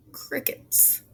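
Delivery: soft unvoiced whisper; whispered crickets. Host whispering at the judge's silence.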